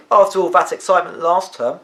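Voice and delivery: a friend on the bus groaning about the dull term ahead; voiced school friend. A narrator's reading. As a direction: draw it out like a bored boy, lightly acted. Fidelio continues.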